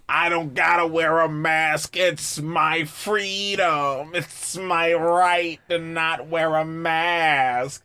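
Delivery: slow, whiny imitation of an anti-masker; mock anti-masker. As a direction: drag it out like a stubborn protester. Mimics anti-mask people.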